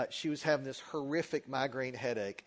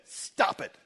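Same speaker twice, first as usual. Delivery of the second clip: abrupt, mildly raised retold outburst; mock a sudden irritated command; irritated wife; 3 semitones higher, 4 dB louder than usual. Hallucinating wife to husband at her bedside, irritated.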